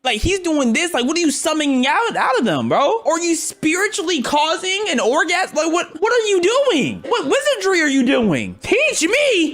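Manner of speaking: high-pitched, incredulous rant; mock disbelief. Real, not acted. Reactor baffled by what he is seeing, mock disbelief. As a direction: build to a high pleading yelp.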